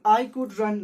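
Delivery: very slow, loud reading aloud. Shown as a demonstration. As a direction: read it out word by word. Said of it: "last में लिखा है I could run". (बहुत धीरे और ज़ोर से पढ़ना)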